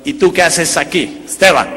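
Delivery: slow, loud on the name; gringo burlón en español. Retold or imitated. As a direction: imitate the heckler calling him out, slowly. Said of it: "me dice en español". (imitando al gringo, lento, el nombre fuerte)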